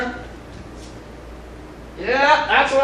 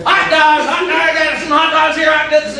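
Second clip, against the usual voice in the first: stadium vendor hawking. Acted. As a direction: call out your wares like a vendor. Vendor calling wares.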